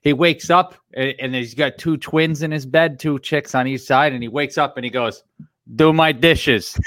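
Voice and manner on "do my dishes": slow, higher movie-line impression; Andrew Dice Clay. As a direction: draw out the comic catchphrase. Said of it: "Andrew Dice Clay".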